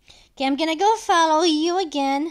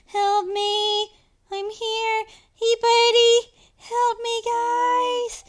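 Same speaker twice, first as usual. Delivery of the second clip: playful call for help; 5 semitones higher, slower than usual. Pretend. Calling teammates for help in game.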